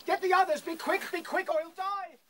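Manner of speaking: urgent shouting. Acted. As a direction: yell him into running. Urgent order to fetch help.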